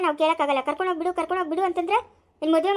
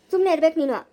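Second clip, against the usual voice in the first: louder, firm angry order; angry rebuke; 5 dB louder than usual. Acted. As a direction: shut her up hard. Family quarrel, silencing elder. (ಕೋಪದ ಆಜ್ಞೆ)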